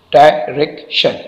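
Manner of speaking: "डायरेक्शन" broken into three beats, डाय, रेक, शन; short pause after each part of "डायरेक्शन"; syllable by syllable. Shown as a demonstration. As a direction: divide "डायरेक्शन" for a learner. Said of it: "इसमें तीन syllable है".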